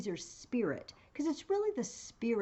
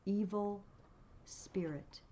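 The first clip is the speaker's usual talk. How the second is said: very slow eerie ghost, trailing into a whisper; 3 semitones higher, much slower than usual. Acted. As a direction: stretch each word, then breathe out the name. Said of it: "He says".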